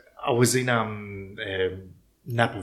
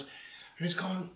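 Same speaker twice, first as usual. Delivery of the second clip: ordinary talk, nothing marked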